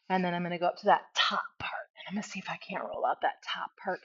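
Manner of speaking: breathy whisper while working the muscle. Real, not acted. Instructor rolling out her quads, whispering to herself. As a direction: murmur it under your breath, voiceless.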